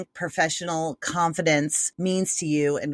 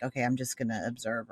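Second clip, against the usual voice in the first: retreating quietly; 6 semitones lower, 7 dB quieter than usual. Retold or imitated. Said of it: "fall into the background".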